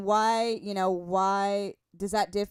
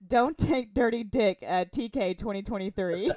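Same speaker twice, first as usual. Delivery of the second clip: kind gentle laugh; 2 semitones lower than usual. Retold or imitated. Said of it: "Pete says".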